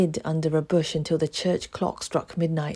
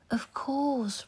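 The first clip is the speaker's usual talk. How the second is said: put-on eager boy; 9 semitones higher, 3 dB quieter than usual. A narrator's reading. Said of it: "replied Oliver".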